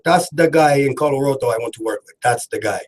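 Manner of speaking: light attempt at a West African accent; Yofi accent. Host quotes his friend's praise, lightly mimicked West African accent. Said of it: "I'm trying to do it like he says it".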